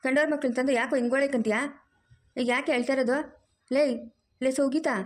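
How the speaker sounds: a mother-in-law who fusses and scolds at once; bossy mother-in-law. Acted. Mother-in-law finds her daughter-in-law crying, scolds and comforts.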